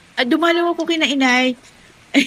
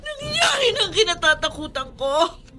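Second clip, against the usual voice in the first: tearful lament; 3 semitones higher than usual. Acted. Wife laments, crying.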